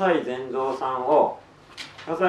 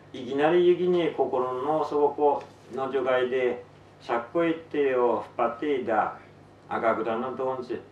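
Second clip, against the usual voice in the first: Tsugaru-dialect story reading. Acted. Author reads a novel to listeners in Tsugaru dialect, story narration.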